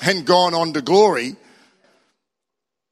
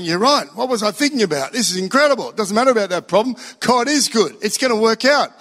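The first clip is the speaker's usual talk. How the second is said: lightly excited, a bit higher; joyful gusto; 4 semitones higher than usual. Retold or imitated. Singer won over in worship, mildly elated. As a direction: gush with relief and delight. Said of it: "singing with gusto".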